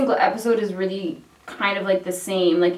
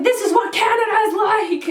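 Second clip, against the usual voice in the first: higher, hammed-up proud Canadian; mock proud boast; 11 semitones higher, 3 dB louder than usual. Speaker boasts to friend in snow, mock proud. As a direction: show off your country playfully.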